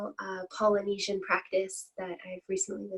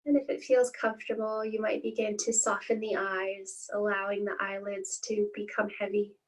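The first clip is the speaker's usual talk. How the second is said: calm, unhurried meditation guiding with long pauses; guided meditation. Acted. Teacher leading listeners through a body scan, calm guided-meditation voice. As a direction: ease listeners into stillness, phrase by spaced phrase.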